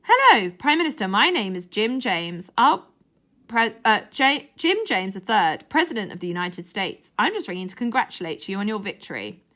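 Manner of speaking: a touch of a pompous president; lightly put-on presidential voice; plotting voice. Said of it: "in his best plotting voice".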